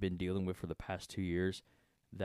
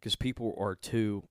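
whistling through tooth gap. Real, not acted. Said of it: "I keep whistling".

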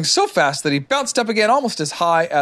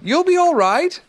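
high, raised call; 4 dB louder than usual. A narrator's reading. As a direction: call up to the tree. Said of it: "called Christopher Robin".

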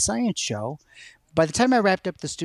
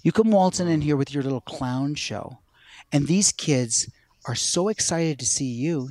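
mild scorn. Retold or imitated. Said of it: "That's what she called it".

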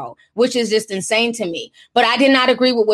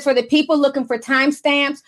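put-on mean girl voice; 2 semitones higher than usual. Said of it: "in my mean girl voice".

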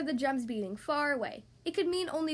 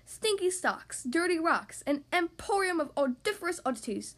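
showy, raised-pitch listing of exhibits; grand announcement; 4 semitones higher than usual. A narrator's reading. Mother rabbit exhibiting the messy room, announcing grandly. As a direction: present each horror with relish. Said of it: "Mother Rabbit announced grandly".

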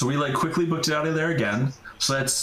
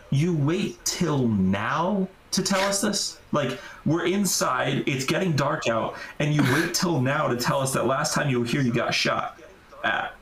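incredulous. Retold or imitated. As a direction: drag it out in disbelief at the buddy. Angry retort at buddy's late warning.

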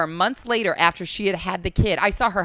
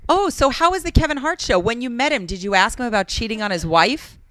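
nosy interviewer; 3 semitones higher than usual. Retold or imitated. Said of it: "she also asked me".

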